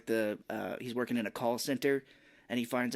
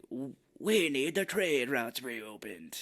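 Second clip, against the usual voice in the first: mock British villain; slower than usual. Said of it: "I sound like the guy from Star Wars".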